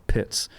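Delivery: Pitts said with a crisp aspirated p and a short i; name pronounced. Shown as a demonstration. Naming the Maya ball game for listeners, Pitts said crisply. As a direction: say Pitts as one clipped syllable. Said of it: "is kind of what it's known as".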